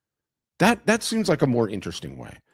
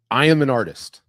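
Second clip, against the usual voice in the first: louder, insistent declaration; emphatic self-announcement; 5 dB louder than usual. Acted. Arun announces himself to a new acquaintance, overemphatic. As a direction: declare it loudly and proudly.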